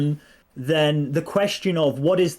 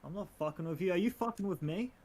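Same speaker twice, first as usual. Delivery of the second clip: faint voice under mic hiss; distant, hissy, too-quiet microphone; quiet voice loud hiss; 10 dB quieter than usual. Real, not acted. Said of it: "No, you're super quiet".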